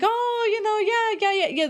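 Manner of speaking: very high, fluttery yeahs; mock gushing waitress. Imitating the waitress fawning over the birthday boy, very high. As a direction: squeak it out like an overeager waitress. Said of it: "she was like".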